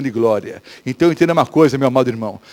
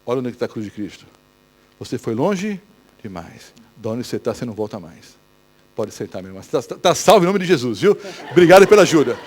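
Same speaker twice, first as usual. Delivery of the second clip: mocking devil voice; 7 semitones lower than usual. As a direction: murmur the taunt low and sly. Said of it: "o diabo vai dizer". (voz baixa e zombeteira do diabo)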